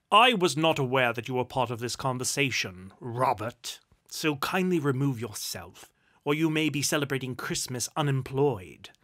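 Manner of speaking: loud, firm reprimand; stern rebuke. Acted. Duke rebuking his applauding secretary, stern. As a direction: put him firmly in his place.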